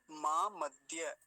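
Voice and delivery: मां मध्य slow, d joined to ya; correct dya. Shown as a demonstration. Teacher recapping the whole word, slow clean dya. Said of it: "इन दोनों से मिलकर बनता है".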